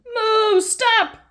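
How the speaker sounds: high, loud moo and stop; shouting moo. Acted. Mister Bull stopping the Pigs' car with a loud high shout. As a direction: halt the car with a bellow. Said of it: "shouts Mister Bull".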